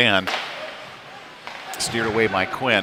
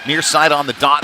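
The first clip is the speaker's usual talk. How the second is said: quick rise on the rebound, louder; excited play-by-play; 4 semitones higher, 4 dB louder than usual. Real, not acted. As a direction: call the dangerous chance with urgency. Scoring chance off a rebound.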